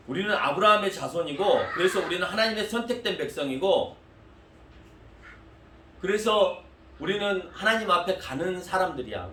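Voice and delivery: indignant protest. Acted. The crowd answering the preacher's Jesus, indignant. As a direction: protest hotly as a proud crowd. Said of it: "유대인들이 이렇게 말합니다".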